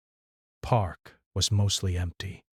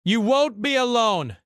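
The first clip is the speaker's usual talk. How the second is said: eager promise; 14 semitones higher, 4 dB louder than usual. A narrator's reading. Promising comfort.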